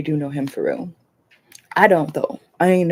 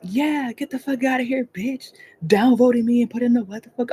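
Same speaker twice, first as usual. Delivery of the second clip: mock angry girl; 6 semitones higher than usual. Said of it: "She was like".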